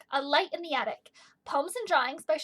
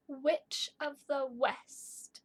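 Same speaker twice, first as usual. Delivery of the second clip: Witch of the west drawn out, each W stressed; very slow emphasis; much slower than usual. Shown as a demonstration. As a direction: stretch Witch of the west slowly. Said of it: "does repeat a beginning sound".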